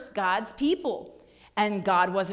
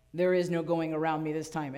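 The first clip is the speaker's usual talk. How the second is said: stern angel; 7 semitones lower than usual. Acted. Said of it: "and the angel is like".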